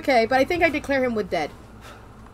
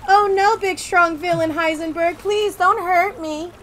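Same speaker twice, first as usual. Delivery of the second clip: higher, slow pleading damsel in distress; mock damsel; 5 semitones higher, slower than usual. Heroine begging villain Heisenberg in mock fear. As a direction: plead like a helpless horror heroine. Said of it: "and be like".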